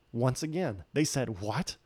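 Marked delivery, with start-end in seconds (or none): 1.4-1.8 mock disbelief, rising on why; shocked. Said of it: "were shocked".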